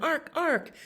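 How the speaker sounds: high-pitched jay call; screaming jay. A narrator's reading. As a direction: imitate a jay's cry in a storybook voice. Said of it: "The jays screamed".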